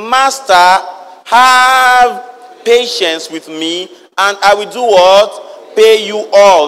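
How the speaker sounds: slow, drawn-out begging servant voice; pleading servant. Acted. Servant begging his master for patience, slow pleading.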